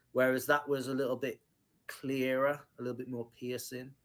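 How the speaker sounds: usual speaking voice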